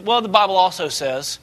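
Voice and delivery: low, quiet, firm and unhurried; calm Jesus rebuking the devil; calm but authoritative. Retold or imitated. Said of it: "he's very calm, but at the same time authoritative".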